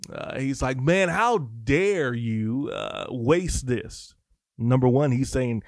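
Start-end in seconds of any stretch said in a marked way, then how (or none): 0.8-4.1 drawn-out, mildly indignant mock outrage; mock irate. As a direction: imitate indignation, stretching the words slowly. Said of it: "he's irate".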